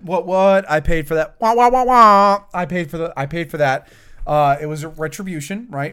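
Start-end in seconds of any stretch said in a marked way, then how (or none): 0.0-3.9 mocking whine. Mocking friend's complaint.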